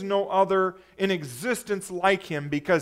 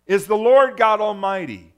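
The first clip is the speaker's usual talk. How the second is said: calling out; 3 semitones higher, 11 dB louder than usual. Acted. Preacher voices seraphim calling to one another, loud reverent calling. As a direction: proclaim it loudly, each holy ringing out and falling. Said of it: "they were calling to one another".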